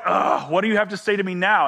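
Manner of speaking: mildly annoyed groan into the question. Acted. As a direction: play the put-upon kid, lightly. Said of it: "I'd be a little bit annoyed".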